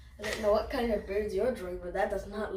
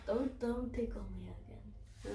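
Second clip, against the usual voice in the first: being tickled. Real, not acted. Child being tickled, pleading.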